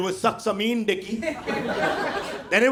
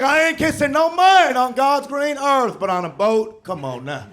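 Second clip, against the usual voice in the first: louder, hammed-up good ol' boy; Texan buddy voice; 4 semitones higher, 3 dB louder than usual. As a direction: push the macho Texan bluster. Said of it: "He's like".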